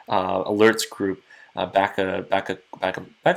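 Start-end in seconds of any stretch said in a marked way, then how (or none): 1.5-3.4 stumbling over the restarts; stuttering. Real, not acted. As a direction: trip on the words and restart the phrase. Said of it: "stuttering a bit".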